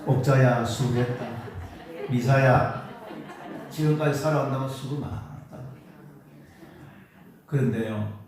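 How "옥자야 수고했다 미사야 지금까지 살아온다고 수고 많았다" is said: calling your own name, then laughing; cheerful, half-laughing praise; laughing self-praise. Real, not acted. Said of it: "자, 여러분 이름 부르며 해보세요". (웃음 섞인 자기 칭찬)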